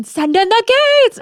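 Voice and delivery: half-yelled imitation of a movie line; imitated movie yell. Interviewer quoting the actress's remembered line, imitated yelling. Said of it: "is you yelling".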